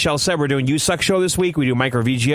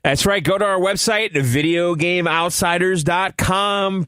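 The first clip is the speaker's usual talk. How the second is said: used car salesman; 2 semitones higher, slower than usual. Acted. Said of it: "talking like a used car salesman".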